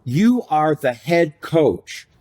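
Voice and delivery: "head" drawn out and given weight; stress on head. Shown as a demonstration. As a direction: lean slowly on "head" in head coach. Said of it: "I emphasize the word head".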